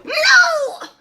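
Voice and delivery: high shouted no with a laugh in it; shocked cry. Retold or imitated. Reacting to the twist in the theatre, laughing shout. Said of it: "and I go".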